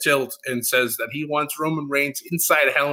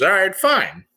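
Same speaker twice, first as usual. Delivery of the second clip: puffed-up mock agreement; 6 semitones higher, 4 dB louder than usual. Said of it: "He gets all puffed up".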